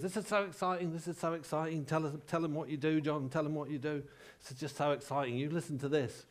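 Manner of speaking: a hint of an excitable Geordie presenter; mock-excited, repetitive stage introduction; Geordie take on a famous singer-presenter. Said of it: "her manner is a bit like a sort of Geordie version of a famous singer-presenter".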